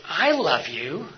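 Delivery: slow, drawn out with a questioning rise at the end; stretched I love you with a rising ending. Shown as a demonstration. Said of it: "make that one sentence mean all sorts of different things".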